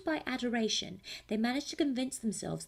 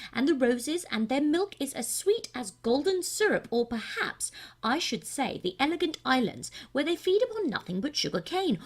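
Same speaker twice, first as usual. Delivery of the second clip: pompous king; 5 semitones higher, 5 dB louder than usual. Acted. King answers the cat's riddle.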